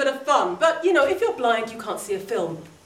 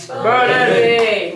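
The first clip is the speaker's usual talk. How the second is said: shouted team name; 6 dB louder than usual. Real, not acted. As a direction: call it out loud. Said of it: "shout your team name".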